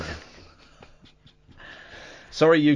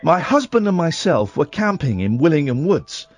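reading a creepy report aloud; hushed ghost-story narration; spooky story reading. Acted. Reads sighting report over music.

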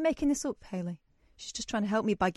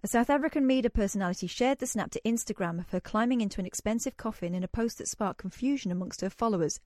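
South African accent. Shown as a demonstration. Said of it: "I'm about to attempt the South African accent".

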